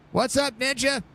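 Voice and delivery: sudden high sing-song hello; playful squeaky hello to a viewer; high greeting. Real, not acted.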